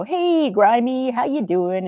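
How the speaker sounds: a lightly voiced goofball hello; imitating Homer. Homer drops into Grimes's office, slow and goofy. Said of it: "he'd go".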